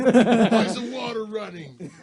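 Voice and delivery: high, slow mock parent question; annoyed parent. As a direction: call through the door like a suspicious parent. Voicing parent at bathroom door.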